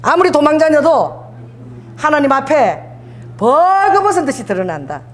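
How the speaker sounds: slow, emphatic phrase for the crowd to echo; call to repeat. Shown as a demonstration. Preacher leading the congregation in repeating, slow and emphatic. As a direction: lay it out slowly so they can repeat it. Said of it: "따라해보세요".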